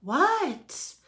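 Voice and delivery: high, falling holler; calling back. A narrator's reading. Froggy answers coach's call.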